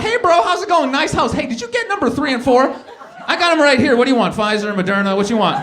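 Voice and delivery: loud, high street-hustler pitch; pushy dealer. Retold or imitated. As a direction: sell shots like a dealer at the gate. Acts selling vaccines to owner.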